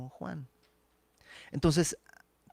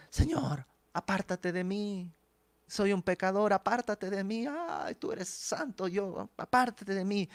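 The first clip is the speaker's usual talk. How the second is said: pleading Peter; 4 semitones higher than usual. Retold or imitated. Peter pleading, sinner before Jesus.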